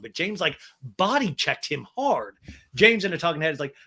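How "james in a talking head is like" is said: normal talking voice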